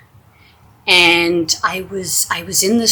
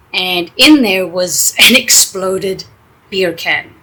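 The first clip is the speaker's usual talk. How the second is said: laughing; 7 dB louder, slower than usual. Real, not acted. Laughs revealing the exploded beer.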